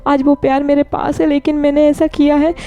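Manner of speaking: lightly voiced, rising lament of guilt; lamenting Wing. Wing tells friends he shamed his aunt, a rising lament.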